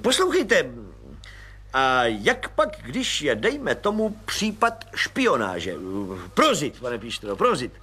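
lavish praise on the little man; gushing, overjoyed colonel. Acted. Colonel asks.

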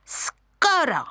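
high, shrill monkey chatter; screeching monkeys. Acted. Monkeys screeching at the lion cub. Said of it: "vřeštěly opice".

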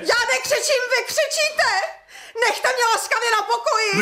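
high, tearful shouting. Acted. Widow shouting back at the landowner, tearful. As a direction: yell it, half laughing, half crying. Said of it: "Nekřičte laskavě".

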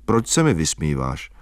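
put-on low, wounded boy's question; hurt. A narrator's reading. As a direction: say it feeling mocked. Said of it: "promluvil jsem lítostivě".

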